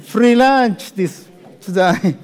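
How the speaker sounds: "Free lunch" drawn out slowly, word by word; slow teasing joke. Shown as a demonstration.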